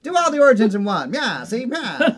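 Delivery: high, loud mid-Atlantic exec; stagey old movie actor accent. Retold or imitated. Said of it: "I have the mid-Atlantic accent".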